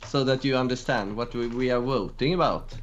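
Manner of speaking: lightly demonstrated Swedish accent. Shown as a demonstration. Guest showing the poll what Swedish sounds like, Swedish accent. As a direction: speak English with a Swedish accent. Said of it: "you have to hear the Swedish accent".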